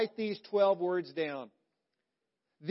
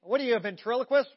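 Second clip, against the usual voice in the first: mocking parent; 4 semitones higher, 6 dB louder, faster than usual. Mock parent rebuking mumbled apology.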